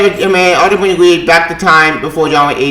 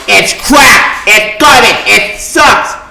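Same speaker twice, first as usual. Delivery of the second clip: angry outburst; 4 semitones higher, much slower than usual. Real, not acted. Ranting about the book.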